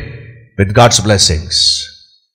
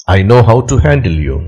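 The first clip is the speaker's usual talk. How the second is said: low quick threat; 5 semitones lower, faster than usual. Acted. Prince's quiet threat in story.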